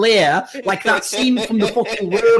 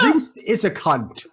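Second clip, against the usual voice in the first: slow, deliberate mock declaration; slow mock pronouncement; mock statement; slower than usual. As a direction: parrot his solemn announcement. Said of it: "I'd like to make a statement".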